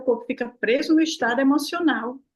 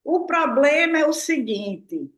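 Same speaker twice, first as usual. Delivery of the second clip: imitating colleague; 4 semitones higher, slower than usual. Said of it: "tudo ele dizia assim".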